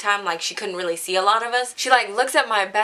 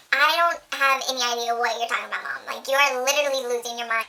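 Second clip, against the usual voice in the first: mock innocent denial; 4 semitones higher than usual. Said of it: "I was like".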